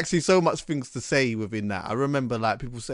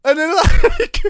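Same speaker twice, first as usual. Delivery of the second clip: much higher, laughing fake DJ voice; put-on radio voice; 12 semitones higher, 6 dB louder than usual. Telling Delisa how he did the demo, high laughing DJ voice. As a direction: show how silly the voice felt, laughing. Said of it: "talking a bit like".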